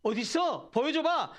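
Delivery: jeering demand, rising in pitch at the end; acted-out taunt of an enemy; mocking taunt. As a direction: imitate a scoffer's challenge. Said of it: "라고 조롱하니까".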